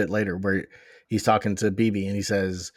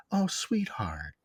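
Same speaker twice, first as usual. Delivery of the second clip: slow, soft, sneering "sweetheart"; contemptuous sarcasm; 2 semitones lower, 9 dB quieter, much slower than usual. Retold or imitated. Retelling an actor's line, leaning in with contempt and sarcasm. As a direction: drip sarcasm onto the endearment. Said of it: "with so much contempt and sarcasm".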